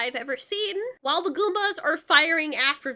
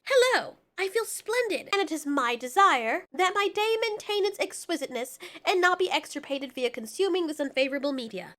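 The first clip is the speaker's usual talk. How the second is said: mock pompous evolved voice. Shown as a demonstration. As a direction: ham up a fake-smart snob. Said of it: "Me evolved".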